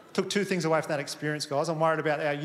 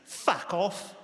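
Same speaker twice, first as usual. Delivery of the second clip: drawn-out mock-aggressive retort; 3 semitones higher than usual. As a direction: imitate an aggressive kid, stretching both words. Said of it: "He swings around really aggressive".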